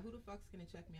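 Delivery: aggressive. Real, not acted. Host giving their intro tag line, aggressive. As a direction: throw it out as a soft-spoken dare. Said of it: "I sound so aggressive".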